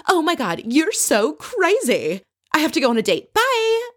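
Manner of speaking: hammed-up hysterics, leaping very high on the goodbye; mock Kelly freak-out. Recapping Kelly storming off to her date, hammed-up freak-out. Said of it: "starts freaking out on Bethany".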